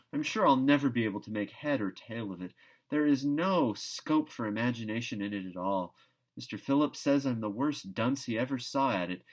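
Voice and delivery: Anne lamenting, half-playful; lightly voiced Anne. Anne complains about geometry to Marilla, lightly dramatic.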